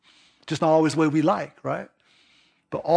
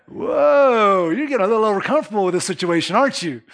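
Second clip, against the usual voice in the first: taken-aback parent; 4 semitones higher, 4 dB louder than usual. Retold or imitated. Parent reacts to demanding kid.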